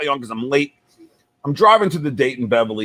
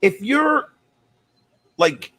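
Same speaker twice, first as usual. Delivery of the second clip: mock staffer; 5 semitones higher than usual. White House staffer questioning him.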